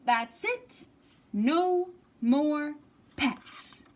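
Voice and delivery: loud exasperated outburst; fed up. Acted. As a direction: put your foot down hard. Bob loses patience.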